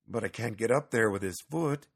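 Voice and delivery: mild, understated protest. Acted. Petson objects to climbing to the attic, mildly protesting. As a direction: object to the idea, mildly put out. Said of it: "Petson protested".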